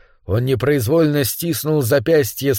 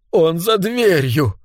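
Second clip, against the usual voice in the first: slow, higher, horrified hush; breathed out in dread; 4 semitones higher, slower than usual. A narrator's reading. Caradine realizes he is behind the door, breathless dread. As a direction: draw it out as the horror lands. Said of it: "выдохнул Карадайн".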